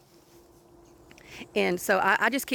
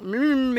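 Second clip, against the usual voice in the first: mumbling hum; 4 semitones higher, 4 dB louder than usual. Retold or imitated. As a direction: hum a mumble, mouth shut. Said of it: "he's mumbling".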